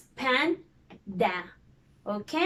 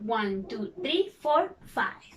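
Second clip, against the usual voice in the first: counting syllables; 2 semitones lower than usual. Shown as a demonstration. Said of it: "five syllables in this word".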